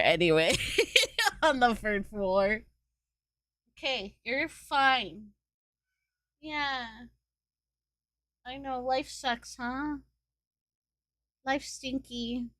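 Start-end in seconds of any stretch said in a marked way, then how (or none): 3.8-12.5 soft, slightly higher soothing murmur; gently commiserate with a sulky cat; consoling pet. Real, not acted.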